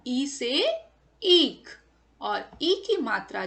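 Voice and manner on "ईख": ईख said loudly with a long stretched ई; stressed long ee. Shown as a demonstration. Teacher to children, stressing the long vowel loudly. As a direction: lean on the long ई of ईख and hold it. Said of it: "जोर देकर थोड़ा सा उसको खींचकर".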